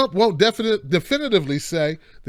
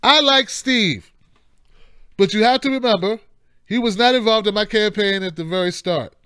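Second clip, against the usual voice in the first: a hint of Trump; Trump quote reading. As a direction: read it like Trump talking. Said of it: "Listen to this. It says".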